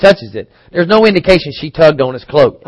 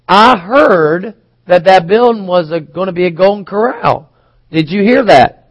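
a lightly voiced cautious asker, higher pitch; careful rumor-teller; 4 semitones higher than usual. To the congregation, retelling asking a friend about the building, mildly raised and tentative. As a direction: pass it on tentatively, just a touch raised. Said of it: "I'm making a statement based upon something I heard".

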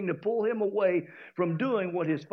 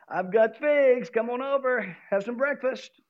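tree tempting. Acted. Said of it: "waving at him with his leaves saying".

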